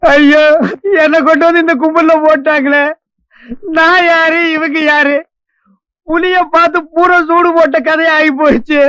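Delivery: mildly whimpering complaint; tearful lament. Acted. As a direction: wail a little in self-pity. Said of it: "அழுவாதப்பா". (லேசா அழுது புலம்பும் குரல்)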